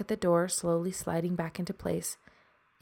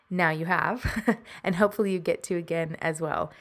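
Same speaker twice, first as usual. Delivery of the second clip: laughing. Real, not acted. Laughing through the outro.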